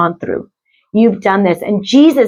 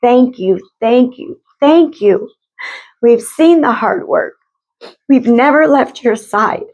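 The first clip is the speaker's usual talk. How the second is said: grateful ancestor spirits; 4 semitones higher than usual. Retold or imitated. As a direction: pass on the spirits' thanks tenderly, pitch lifting as it repeats. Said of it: "Your ancestor spirits are here saying".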